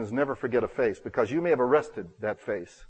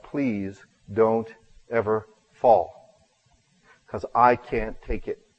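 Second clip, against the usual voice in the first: retold tearful plea; 2 semitones lower, much slower than usual. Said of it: "You know, he's in tears".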